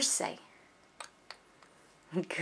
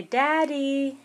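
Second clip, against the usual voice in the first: put-on modelling a word for a toddler; 5 semitones higher than usual. Shown as a demonstration.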